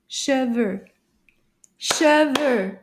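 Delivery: "Cheveux" in two even beats; clapped syllables. Shown as a demonstration. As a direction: beat out both syllables of "Cheveux". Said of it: "see if we can clap the sounds".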